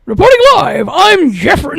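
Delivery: news reporter on location; announcer voice. Pretend. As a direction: sign off like a TV reporter. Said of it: "I had to do my little announcer voice here".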